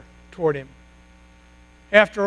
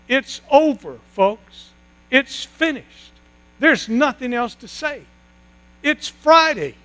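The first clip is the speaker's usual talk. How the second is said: a preacher's swelling Good Friday climax; rising sermon climax; 4 semitones higher than usual. Acted. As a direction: preach it like the end of everything. Preacher's dramatic Good Friday build.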